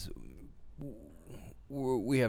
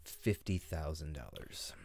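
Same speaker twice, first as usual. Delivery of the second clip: dramatic pause; 4 semitones lower, 6 dB quieter, slower than usual. Acted. Dramatic guess reveal.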